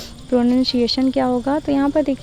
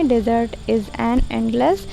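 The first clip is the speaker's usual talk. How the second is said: slow dictation reading; much slower than usual. Acted. Dictates the model answer.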